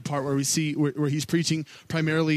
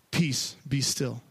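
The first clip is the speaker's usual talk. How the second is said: calm command; 2 semitones lower, much slower than usual. Retold or imitated. Jesus speaking to the wind and waves, slow calm command. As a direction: still the storm gently.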